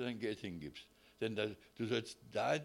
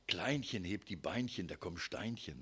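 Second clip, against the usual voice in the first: dainty, cutesy little rhyme; sweet diminutive rhyme; 5 semitones lower than usual. Shown as a demonstration. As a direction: say it like tender young love. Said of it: "die Liebe ist so, wenn man so ganz frisch verliebt ist".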